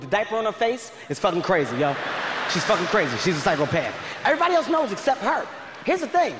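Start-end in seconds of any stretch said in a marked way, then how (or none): 4.2-6.3 shouting the point. Real, not acted. Comic yelling the point to the audience, shouting. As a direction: yell it out to the crowd. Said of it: "comedian emphasising point".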